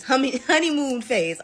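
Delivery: honeymoon phase said through a laugh; real amused laugh mid-word; laughing at a slip. Real, not acted. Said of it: "Oh my God, I can't talk".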